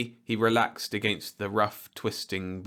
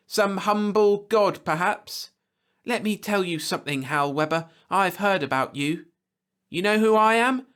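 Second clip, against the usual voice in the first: much higher, louder furious outburst; indignant tirade; 12 semitones higher, 7 dB louder than usual. A narrator's reading. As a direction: tear into him, outraged. Lois furious at insult to father.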